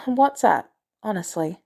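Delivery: warmer. Acted. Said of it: "Her voice warmed".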